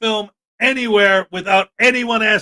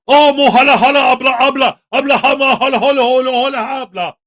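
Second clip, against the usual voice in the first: louder, hammed-up fake Arab accent gibberish; mocking fake Arab accent; 3 semitones higher, 5 dB louder than usual. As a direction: parody a racist YouTuber's fake Arab accent. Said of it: "with his fake Arab accent".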